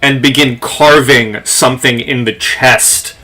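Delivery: slow, measured scene setting; game master narration. Acted. Game master describes the revenant exploding to players, measured storytelling. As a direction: tell it with deliberate dramatic pauses.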